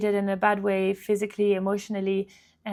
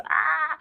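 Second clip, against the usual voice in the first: high, drawn-out "ah"; frustrated cry; 6 semitones higher than usual. Real, not acted. Storyteller venting about being pressured, frustrated high cry. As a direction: let out a pitched-up exasperated "aah".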